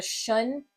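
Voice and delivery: shun with voiceless sh; first sound. Shown as a demonstration. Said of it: "is saying its second sound".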